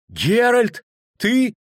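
high, incredulous question; astonished recognition. Acted. Poet spotting the witcher in the crowd, astonished. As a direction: ask it high, in disbelief.

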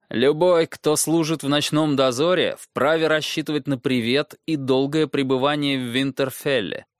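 a hint of a formal young lord; lightly stern official welcome; young lord's voice. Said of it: "говорил Роб голосом Роба-лорда". (голос молодого лорда, официально)

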